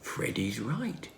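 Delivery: slow, soft whisper. Acted. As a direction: hush it as if someone might hear. Tom agrees about fake card.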